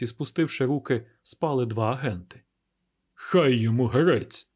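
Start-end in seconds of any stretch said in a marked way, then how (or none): 3.1-4.5 slow, a little louder grumbled oath; grumbled curse. Acted. Inspector finds the agents asleep, grumbling curse. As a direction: mutter the curse under his breath, annoyed. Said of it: "пробурчав інспектор".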